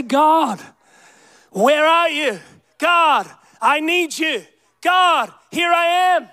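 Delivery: mildly impassioned cry of prayer. Acted. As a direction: call out to God as to a father. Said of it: "you just cry out".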